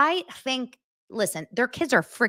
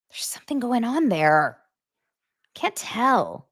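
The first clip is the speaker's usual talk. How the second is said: unvoiced, hushed aside as if sharing a secret; conspiratorial whisper; 3 semitones higher, slower than usual. Real, not acted. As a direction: whisper it like a rumour. Hinting at a dark vibe.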